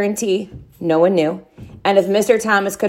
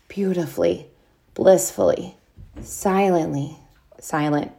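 fading to quiet; 4 semitones lower, 5 dB quieter than usual. A narrator's reading. TV goes silent, savoured.

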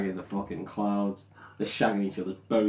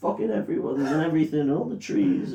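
hammed-up evil queen rant, slightly higher; evil witch; 6 semitones higher than usual. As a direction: ham up a cackling sorceress losing it. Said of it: "and starts going".

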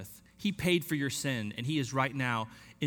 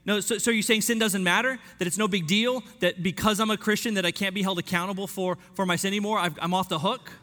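higher, louder mock objection; incredulous objector; 5 semitones higher, 4 dB louder than usual. Imagined people objecting to grace, higher incredulous voice. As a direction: push back like a doubting skeptic. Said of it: "I can hear some people saying".

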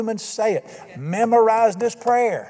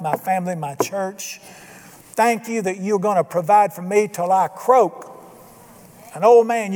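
prayer. Shown as a demonstration. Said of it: "go on all you want to".

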